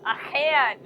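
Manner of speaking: A can run together with no stop between; German word attempt. Shown as a demonstration. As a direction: glide A can smoothly, no break. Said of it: "No stop in between".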